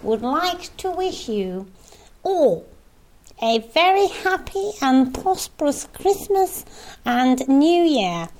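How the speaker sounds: lightly voiced Queen's Christmas speech; mock royal broadcast; Queen impression. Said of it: "Does the, does the Queen sound like that?".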